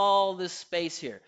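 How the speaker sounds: ALL stretched long and loud; open stressed vowel. Shown as a demonstration. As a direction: open wide and draw out "all". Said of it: "I'm creating".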